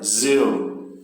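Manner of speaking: "Zil" alone, drawn out and falling; isolated stressed syllable. Shown as a demonstration. Teacher isolating the word's ending, Zil stressed. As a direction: give the final syllable "Zil" its full weight. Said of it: "Justamente o final da palavra".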